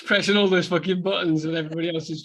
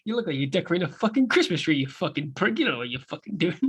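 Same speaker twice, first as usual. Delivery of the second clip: fast sneer dropping softer at the end; Tommy mocking; 2 semitones higher, 3 dB quieter, faster than usual. Co-host quoting Tommy's line again, fast. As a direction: spit it out fast then mumble.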